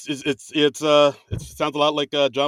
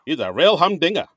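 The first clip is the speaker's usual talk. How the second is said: put-on old time 1940s voice. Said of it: "He's doing that old time nineteen forties voice".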